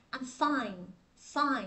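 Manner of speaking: "fine" closed clearly on an n; careful "fine", n held at the end; final n in "fine". Shown as a demonstration. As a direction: model "I'm fine" with the n ending sounded. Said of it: "là nó có âm đuôi N".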